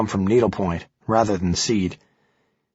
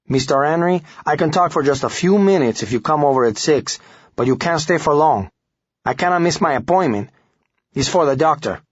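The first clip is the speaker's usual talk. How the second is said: put-on higher, uneasy Hispanic accent; agitated Hispanic accent; 6 semitones higher than usual. Guzman reluctantly agrees after his wife speaks, Hispanic accent. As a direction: give in nervously with a Hispanic accent. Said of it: "A man with a thick Hispanic accent answered".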